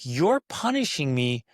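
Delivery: acting out an indignant kid's protest; mock outrage, stressing the injustice; livid kid. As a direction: protest like a wrongly punished kid. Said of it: "The kid's gonna be livid".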